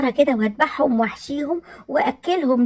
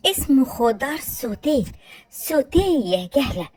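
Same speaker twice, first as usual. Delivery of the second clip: condescending correction. Acted. Correcting pronunciation with scorn.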